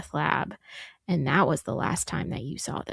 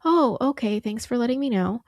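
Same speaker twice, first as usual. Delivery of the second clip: high, casual mock of an unbothered mother; offhand reply; 6 semitones higher than usual. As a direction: toss it off lightly, as if it were no big deal. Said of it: "being more upset about the fact".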